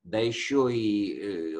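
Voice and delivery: usual speaking voice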